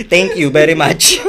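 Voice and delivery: loud, slow mock-formal sign-off; mock disclaimer. Thanking viewers after disclaimer, mock-formal. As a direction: close the fake notice on a laugh.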